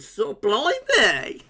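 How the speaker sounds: slow blimey through a laugh; amused, laughing blimey. Real, not acted. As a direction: chuckle the word out. Jokes about viewer's fancy dinner.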